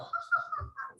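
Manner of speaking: high mock laugh; imitated teacher's laugh. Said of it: "start laughing".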